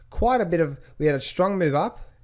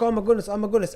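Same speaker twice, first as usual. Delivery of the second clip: higher, lightly flustered imitation; half-earnest fretting, pitched up; mock panic; 6 semitones higher, faster than usual. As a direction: imitate a worried trader fretting. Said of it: "they're freaking out".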